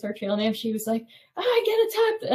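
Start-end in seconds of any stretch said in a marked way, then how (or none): 1.4-2.3 high, louder mock panic cry; imitating a panicked friend. Friend mimicked under bee attack, high mock shriek. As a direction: squeal like a friend swarmed by bees. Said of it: "she was screaming".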